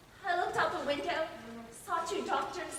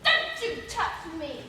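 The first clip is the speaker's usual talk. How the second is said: angry protest; 2 semitones higher, 5 dB louder, slower than usual. Acted. Patient resists doctor.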